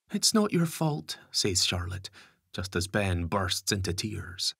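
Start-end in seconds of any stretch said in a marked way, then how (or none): 0.1-1.2 gently reassure, a touch slower; gentle girl voice. A narrator's reading. Charlotte comforts Gary.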